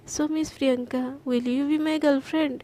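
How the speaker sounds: soft, slow, tender question; tender proposal. Acted. Garima tenderly proposes to Priyanka, soft and slow. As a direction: ask it gently, holding her breath.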